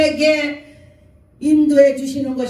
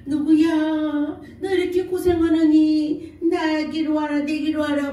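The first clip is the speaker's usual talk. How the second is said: long-drawn call, a little raised in pitch; imitating a possessed medium; 4 semitones higher than usual. Shaman calling in the dead mother's voice, imitated spirit summons. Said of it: "엄마 목소리를 내는 거야".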